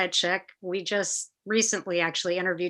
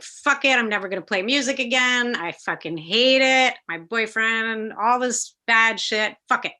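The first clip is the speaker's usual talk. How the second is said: retold rant, pitched up; fed-up venting; 3 semitones higher than usual. Young musician swearing off music after rejection, fed-up venting. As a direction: vent it, slowing on each grievance. Acts out her fed-up quitting.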